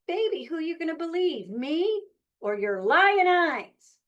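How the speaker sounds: mock a cheating smooth-talker; smooth womanizer. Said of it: "as every unfaithful womanizer likes to say".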